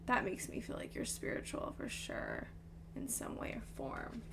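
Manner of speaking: soft whisper to herself; whispered musing. Real, not acted. Reader whispers while studying the cards, soft whisper. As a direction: breathe the words, half to herself.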